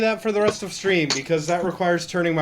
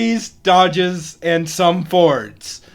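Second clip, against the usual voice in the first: glitchy robotic audio; choppy digital robot sound; 4 dB louder, much slower than usual. Real, not acted. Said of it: "you just went robotic for me".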